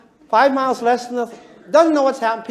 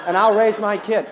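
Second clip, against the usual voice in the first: power-hungry scheming; 3 semitones lower than usual. Retold or imitated. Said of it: "interpret all this in the way of power".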